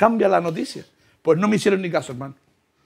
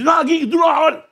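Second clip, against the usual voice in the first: firm brush-off; 10 semitones higher, 3 dB louder than usual. Retold or imitated. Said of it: "Me dice".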